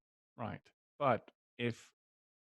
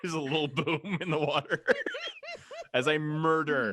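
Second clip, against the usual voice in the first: booming arrogant alien overlord; 5 semitones higher, 4 dB louder than usual. Acted. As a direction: gloat through laughter. Gloating over killing.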